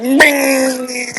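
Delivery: high shouted "Bing"; spring up like a wind-up toy; hyper kid bing. Retold or imitated.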